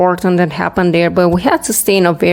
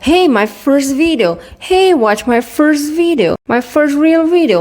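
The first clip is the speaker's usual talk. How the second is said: mock hyped YouTuber; 8 semitones higher than usual. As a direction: play an overexcited newbie YouTuber.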